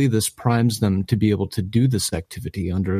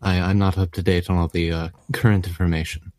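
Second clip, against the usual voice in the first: a hint of a frail old professor; very old man. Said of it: "I'm a very old man".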